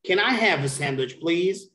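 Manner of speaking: "Can I have a sandwich, please?" quick, rising on "please"; question intonation. Shown as a demonstration. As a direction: model a question, lifting "please" at the end. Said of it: "It's gonna be this way because it's a question".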